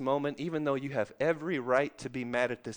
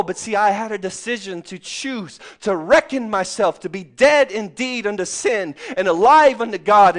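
usual speaking voice

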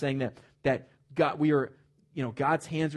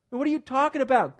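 higher, louder indignant question; louder, pitched-up exasperated challenge; indignant preaching; 9 semitones higher, 5 dB louder than usual. Acted. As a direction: throw the question at them. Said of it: "preacher repeats his retort, now loud".

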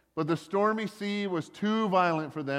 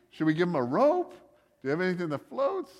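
tentative questions lifting at the ends; mock awkward asking. Sailors wondering whether to help Jonah, comically hesitant. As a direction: ask sheepishly, playing up the awkwardness. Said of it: "It was just this awkward thing".

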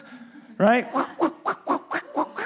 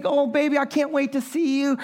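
put-on tender talk to baby; 5 semitones higher than usual. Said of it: "and I would say".

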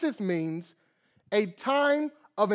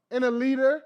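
imitating son; 6 semitones higher, 4 dB louder than usual. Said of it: "he's still crying, whimpering".

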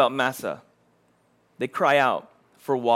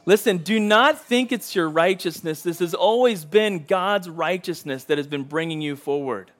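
earnest pleading; 2 semitones higher than usual. Acted. Moses pleads with the people, earnest and insistent. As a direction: start raised and insistent, then settle. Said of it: "as he's pleading with them".

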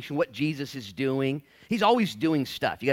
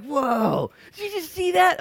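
high, loud astonished whoa; a stunned onlooker who can't believe it; amazed gasp; 7 dB louder, slower than usual. Retold or imitated. Preacher playing a marveling bystander, high astonished whoa. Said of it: "Some people are marveling".

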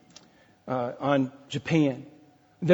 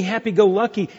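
ordinary talk, nothing marked

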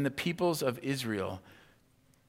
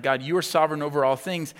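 fervent prayer; 3 semitones higher, 7 dB louder, faster than usual. Retold or imitated. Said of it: "they're praying, like".

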